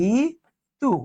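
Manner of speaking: ঋতু spoken slowly and clearly as a teacher's model; model pronunciation. Shown as a demonstration. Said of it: "এটার উচ্চারণ হচ্ছে".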